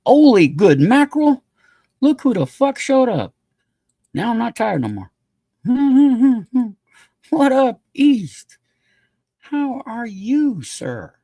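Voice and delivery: loud, high burst of delight with a laugh; excited greeting. Real, not acted. Streamer loudly greeting East arriving on stream, thrilled. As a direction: shout your welcome to the friend who just walked in. Greeting friend who shows up.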